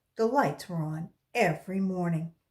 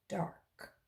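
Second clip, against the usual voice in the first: whisper; 9 dB quieter than usual. A narrator's reading. Dark room, voice drops away.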